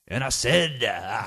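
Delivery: half-hearted preacher cry; mock sermon opener; preacher impression. Shown as a demonstration. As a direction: try a preacher's proclamation, lightly hammed-up. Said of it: "the preacher impression".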